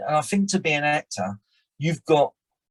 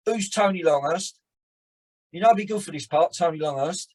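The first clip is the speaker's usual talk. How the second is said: casting director; 3 semitones higher than usual. Retold or imitated. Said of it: "my drama teacher used to say".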